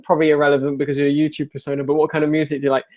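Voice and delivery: fast, breezy rattle through the question; rushed mocking reread. Shown as a demonstration. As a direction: rattle it off with mock importance. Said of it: "I love this, like".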